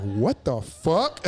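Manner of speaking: drawn-out shocked question; slow shocked. Retold or imitated. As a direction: let the shock stretch out. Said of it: "they're like".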